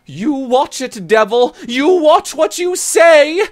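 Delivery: very high, loud furious warning; threatening. Acted. Scot threatening the Irish friend: loud furious high warning. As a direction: snarl a warning at her enemy.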